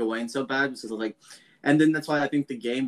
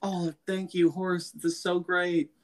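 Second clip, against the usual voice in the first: higher-pitched, playful fake relief; mock gratitude; 5 semitones higher, slower than usual. Friend voicing Gowan to his horse, mock gratitude. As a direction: coo thanks in a send-up of relief.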